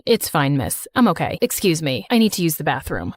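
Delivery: put-on deep, calm young man; low male voice. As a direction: drop the voice low and steady. Narrator voices Slater.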